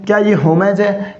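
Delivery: "होमेज" ending in "ej", as a question; wrong pronunciation. Shown as a demonstration. Teacher tests students, mispronouncing "होमेज" with an e. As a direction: ask it with e in "होमेज". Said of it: "नहीं साथियों".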